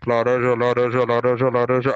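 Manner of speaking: very low, monotone chant; orange truck announcer. Retold or imitated. Orange seller calling from his truck, low repetitive drone. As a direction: drone one word like a loudspeaker loop. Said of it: "o cara só fala uma palavra".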